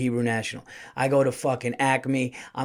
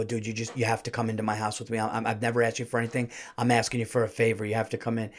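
low, hushed, rapid plea; rushed, quiet appeal, words tumbling out; urgent pleading; 3 semitones lower, 5 dB quieter, much faster than usual. Retold or imitated. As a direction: imitate begging a friend for backup. Begs friend to come inside.

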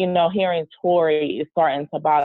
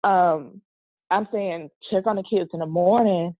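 real tears catching in the throat; getting emotional. Real, not acted. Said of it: "sorry if I get emotional".

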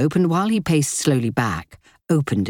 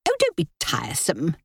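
haughty sister-in-law; 2 semitones higher, 4 dB quieter than usual. Acted. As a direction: press with sharp impatience. Linda scolds Kitty.

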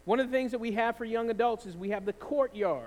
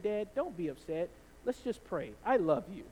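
put-on calming child; 4 semitones lower, 4 dB quieter than usual. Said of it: "That just calmed me down completely".

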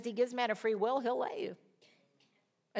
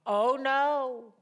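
mock prim; 5 semitones higher, 6 dB louder than usual. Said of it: "religion has taught us".

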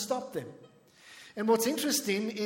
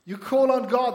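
louder, higher preacher's call; forceful exhortation; 4 semitones higher, 7 dB louder than usual. Real, not acted. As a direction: drive it home to the congregation loudly. Repeats it forcefully to congregation.

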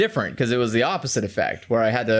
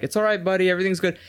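cold, emotionless calm; 4 semitones higher, faster than usual. Retold or imitated. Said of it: "I sat there very cold, emotionless".

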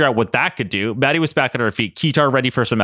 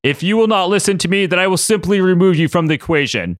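villain threat; 6 semitones higher than usual. Acted. Apocalypse threatens the team.

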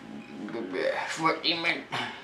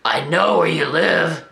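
put-on creepy old man; 2 semitones lower, slower than usual. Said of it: "the guy says".

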